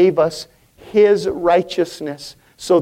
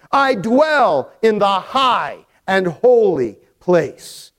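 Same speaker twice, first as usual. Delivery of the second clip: slow, measured proclamation with long-held words; solemn scripture reading; 3 semitones higher than usual. Acted. Preacher reads God's self-description to the congregation, solemn and slow. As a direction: declare the verse phrase by phrase.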